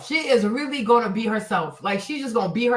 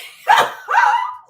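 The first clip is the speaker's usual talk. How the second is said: high squealing laugh; 6 dB louder than usual. Real, not acted. Laughing at her own reaction.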